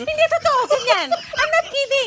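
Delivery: very high, loud protest through laughter; real laughter, voice shooting way up; laughing insistence. Real, not acted. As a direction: insist you mean it while cracking up. Insisting amid laughter at herself.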